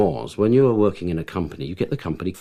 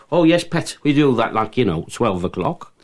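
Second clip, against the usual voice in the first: a lightly voiced Geordie, higher and louder; Geordie kitchen man; 4 semitones higher, 5 dB louder than usual. Newcastle kitchen man telling the actor dinner means noon, light Geordie accent. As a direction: give a hint of a cheery Geordie local.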